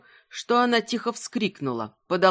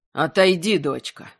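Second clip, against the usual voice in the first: parental authority with menace; 2 semitones lower than usual. Acted. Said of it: "с родительской властью и глухой угрозой в голосе".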